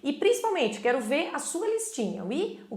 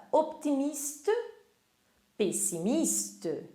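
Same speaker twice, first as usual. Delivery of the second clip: slow model words; 3 semitones higher, 3 dB quieter, slower than usual. Shown as a demonstration. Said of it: "Repita comigo aí em casa".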